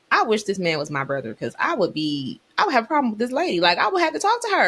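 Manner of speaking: sassy scolding, speeding up; fast, sassy ma'am warning; protective sister. Retold or imitated. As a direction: tell off the lady for her brother. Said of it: "I was telling my brother".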